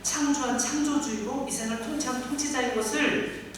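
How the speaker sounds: loud, proclaiming voice of God; God proclaiming himself to Egypt; God declaring. Acted. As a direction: thunder it out, then drop. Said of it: "이렇게 말씀하시는 것입니다".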